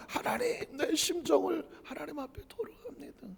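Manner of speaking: soft, pleading whisper to God; whispered prayer. Acted. Believer pouring out heart before God, whispered. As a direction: pour out the heart under breath.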